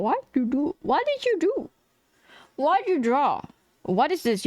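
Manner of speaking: exasperated self-roast, pitch leaping up on questions; mock scolding. Streamer as tomorrow's self judging the drawing, mock scolding. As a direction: berate yourself in playful high-pitched disbelief. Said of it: "look at this tomorrow and be like".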